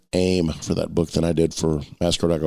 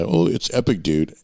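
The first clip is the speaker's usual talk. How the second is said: surfer dude. Retold or imitated. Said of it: "And not epic by".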